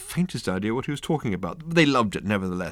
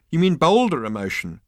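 high, mildly tittering quip; 8 semitones higher, 4 dB louder than usual. A narrator's reading. Hairdresser makes a pun, tittering. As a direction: offer the pun with a touch of titter. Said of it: "tittered a hairdresser".

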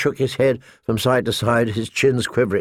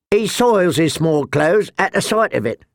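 mocking shout; 5 semitones higher than usual. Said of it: "Chet shouted out".

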